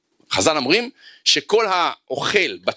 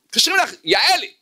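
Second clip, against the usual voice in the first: higher, a mild mock call through the house; 9 semitones higher than usual. A child calls the daughter to the phone, mild mock call. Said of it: "צועק לה".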